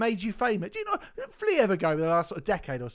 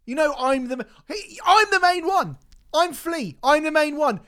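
louder, higher boastful mock voice; mock arrogant Flea; 7 semitones higher, 5 dB louder than usual. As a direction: puff yourself up as the star. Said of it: "Why Flea go".

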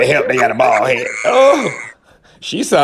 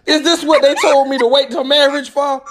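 retold shock; 11 semitones higher than usual. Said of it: "I was like".

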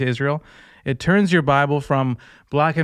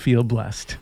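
ordinary delivery

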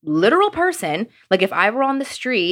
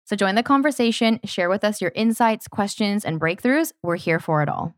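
podcast promo read. Real, not acted. Co-host inviting listeners to meet like-minded souls, promo read. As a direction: sell the community to listeners.

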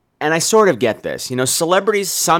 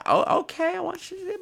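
mock echo; 13 semitones higher, 10 dB quieter than usual. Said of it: "I'm like".

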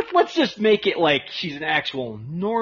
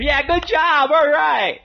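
mock sarcastic praise; 9 semitones higher, 4 dB louder, slower than usual. Crowd mocking him, clapping.

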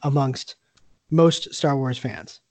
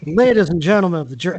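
Southern court lawyer; faster than usual. Pretend. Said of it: "I'm gonna do this as if this was, like, a Southern court".

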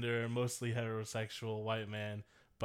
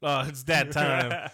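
dad voice; 4 semitones higher, 9 dB louder, slower than usual. Pretend. Teasing about dad shoes.

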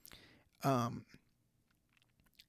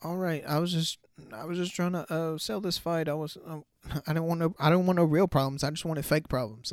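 nervous fighter backing down; 4 semitones higher, faster than usual. Retold or imitated. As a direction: play the guy suddenly scared off the real fight. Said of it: "you could tell dude was like".

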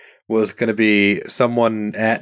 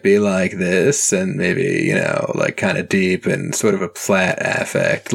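vocal fry; 2 semitones lower than usual. Shown as a demonstration. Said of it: "millennial Vocal Fry prestige podcast voice".

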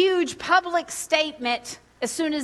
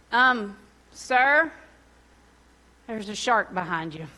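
crazy calm voice; 3 semitones lower than usual. Retold or imitated. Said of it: "my crazy calm voice".

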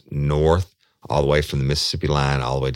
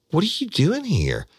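freaked out. Retold or imitated. Woman at Walmart startled to see him, shocked high cry. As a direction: blurt it out in alarm. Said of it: "it freaked me the fuck out".

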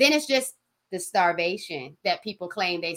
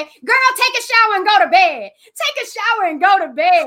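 loud, high mock scolding; scolding yell; 10 semitones higher, 8 dB louder than usual. Telling a hungry fasting friend off, loud mock scolding.

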